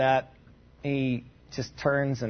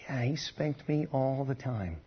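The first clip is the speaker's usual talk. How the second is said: hushed whisper, mock confession; whispered aside; 6 dB quieter than usual. Preacher voicing a listener's answer about dad, whispered. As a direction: whisper it like a guilty joke.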